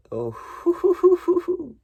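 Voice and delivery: high, loud burst of glee; loud giddy "oh, oh" before laughing; excited outburst. Real, not acted. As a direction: blurt it out as you start cracking up. Cracking up before punchline.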